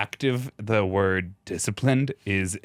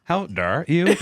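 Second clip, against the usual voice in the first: put-on Australian accent; 5 semitones higher, slower than usual. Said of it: "Except in an Australian accent".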